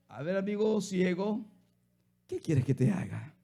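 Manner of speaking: softly voiced Jesus, gentle and unhurried; a hint of a kind master asking softly; tender question. Jesus gently asks the blind beggar what he wants, soft and tender. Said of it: "nunca me han hablado así tan tiernamente".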